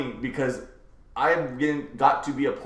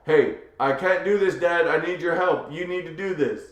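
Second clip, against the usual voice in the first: put-on higher kid's plea, lightly called out; imitated child calling; 4 semitones higher than usual. Child needing dad's help from the other room, calling. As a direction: mildly call for help like a kid. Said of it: "from the other room go".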